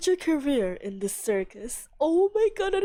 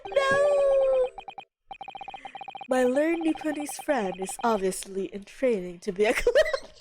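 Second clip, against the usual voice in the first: haughty prosecutor shout; 2 semitones higher than usual. Acted. Voicing the prosecutor's outburst.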